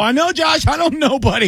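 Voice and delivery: high, helpless exasperation; retold exasperated reply. Host answering his buddy in a high mock-helpless voice. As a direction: throw up your hands, squeaky and high. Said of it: "I go".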